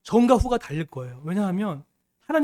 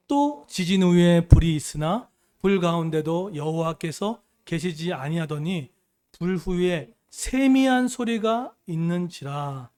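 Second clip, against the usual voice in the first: slow, drawn-out reading aloud; scripture reading; 3 dB louder, slower than usual. Real, not acted. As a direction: read the verse slowly and deliberately, stretching the phrases.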